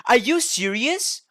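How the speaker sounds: surprised. Real, not acted. Shocked by announcement.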